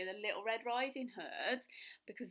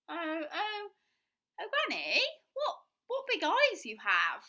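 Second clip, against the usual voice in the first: put-on high, louder stammering girl; getting more worried; nervous stammer; 8 semitones higher, 9 dB louder than usual.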